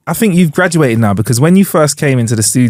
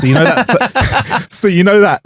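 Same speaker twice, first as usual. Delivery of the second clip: higher, laughing through the words; 9 semitones higher than usual. Real, not acted. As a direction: lose it mid-sentence.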